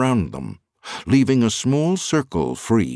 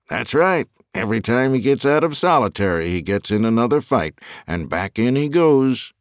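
lightly voiced prison official, higher pitch; assistant warden; 4 semitones higher than usual. Assistant warden explains the fights to Fuller, lightly voiced. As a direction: voice the official a little higher than narration.

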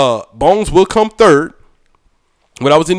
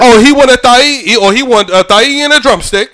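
lightly put-on Jamaican accent, higher; fake Jamaican accent; 5 semitones higher than usual. Customer mimicking restaurant staff, fake Jamaican accent. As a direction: play at a Jamaican server's accent. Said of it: "my fake Jamaican accent".

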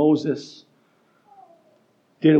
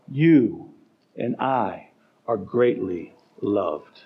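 tender reassurance; 6 semitones lower, much slower than usual. Acted. Jesus says, tender quote.

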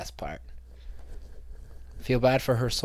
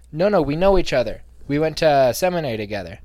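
louder, higher no-no-we-know-each-other; louder emphatic mock protest; insistent correction; 4 semitones higher, 6 dB louder than usual. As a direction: cut her off eagerly. Correcting her, acted self.

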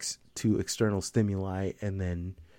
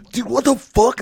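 mock outraged friend; 14 semitones higher, 9 dB louder than usual. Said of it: "And they're like".

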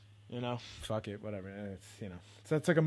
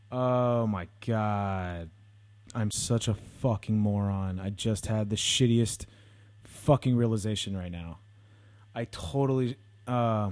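louder, drawn-out groans of self-disgust; exasperated groan; 6 dB louder, slower than usual. Real, not acted. Vlogger realizing he got a street sweeping ticket, loud exasperation. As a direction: curse yourself out for forgetting the car.

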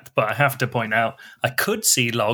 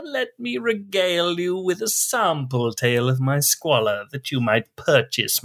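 wretched, wailing melodramatic lament; hammy tortured soul confessing; eldritch horror; slower than usual. Acted. Reads melodramatic product description.

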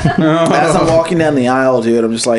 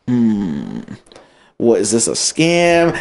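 drawn-out suspicious hmm, then wary questioning; acted suspicion; 3 semitones higher, much slower than usual. Retelling his doubts about the friendly lady, mock suspicious. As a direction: question it warily, as if thinking aloud. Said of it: "I was just being suspect".

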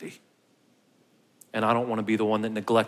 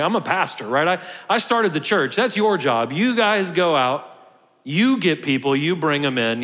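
hammed-up lazy pastor brushing off the work; smug pastor; 3 semitones higher, 4 dB louder than usual. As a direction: play the entitled pastor who has paid his dues. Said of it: "A lot of us think like that".

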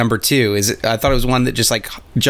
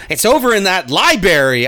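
Indiana Jones voice; 5 semitones higher than usual. Retold or imitated. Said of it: "Doctor Jones says".

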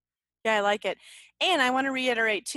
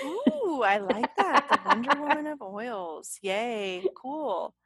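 amused delight; 3 semitones higher, 3 dB louder, slower than usual. Real, not acted. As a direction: react with a delighted laugh. Delighted reaction to co-host's nickname.

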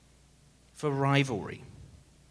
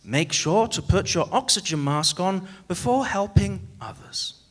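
safety announcement; 3 semitones higher than usual. Retold or imitated. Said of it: "But they say".

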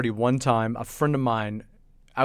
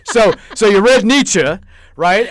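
patronizing; 6 semitones higher, 10 dB louder than usual. Retold or imitated. Mocking patient reply to bar patron.

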